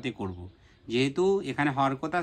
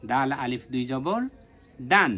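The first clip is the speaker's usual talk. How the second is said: quicker spelling. Shown as a demonstration. Teacher repeats the spelling at normal speed for students. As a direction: run through it quicker. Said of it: "তাড়াতাড়িভাবে উচ্চারণ করব".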